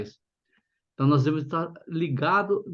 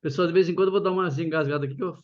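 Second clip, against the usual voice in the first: numb from the dentist. Real, not acted. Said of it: "tô com a boca ainda anestesiada".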